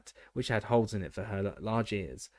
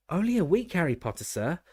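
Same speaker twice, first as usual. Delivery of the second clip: high, loud, happy elf voice; happy squeaky elf; 7 semitones higher, 4 dB louder than usual. A narrator's reading. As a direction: chirp it out proudly. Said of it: "said Dobby happily".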